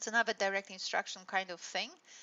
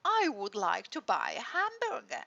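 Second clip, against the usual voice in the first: slow, deliberate and a bit louder; teacher drilling a sentence; 4 dB louder than usual. Retold or imitated. Language teacher drilling her French pupil, slow and deliberate. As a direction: spell each word out for a struggling learner. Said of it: "she's saying to him".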